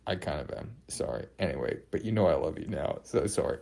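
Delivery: hushed sorry aside; sheepish aside. Real, not acted. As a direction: mumble the apology under breath. Sheepish aside after insult.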